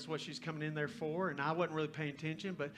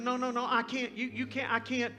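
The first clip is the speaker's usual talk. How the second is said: high, loud, stammered protest; imitated distraught girl; 8 semitones higher, 7 dB louder than usual. Girl overwhelmed by a stranger's generosity, mock frantic. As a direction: imitate her frantic refusal at a raised pitch. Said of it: "She starts crying and weeping".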